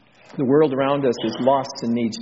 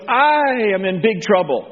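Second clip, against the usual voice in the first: high, raised-voice dismay; acted alarm; 7 semitones higher, 4 dB louder than usual. Isaiah seeing the Lord in the temple, loud acted alarm. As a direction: cry out in dramatic awe.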